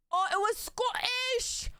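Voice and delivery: high drawn-out cry of discovery; thrilled eureka moment; excited realisation. Real, not acted. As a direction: blurt it out in a high, stretched voice. Sudden realisation, shouted out.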